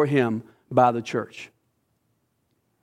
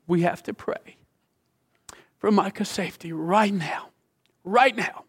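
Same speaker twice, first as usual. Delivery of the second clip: urgent pleading, rising to a higher right now; urgent plea; 4 semitones higher than usual. Retold or imitated. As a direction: beg to pray right now. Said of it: "hysterical and in tears".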